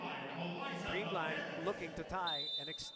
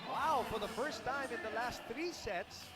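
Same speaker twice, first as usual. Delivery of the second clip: raised, lilting sportscaster pitch; live play-by-play; 6 semitones higher than usual. Real, not acted. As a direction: announce a turning point with excitement.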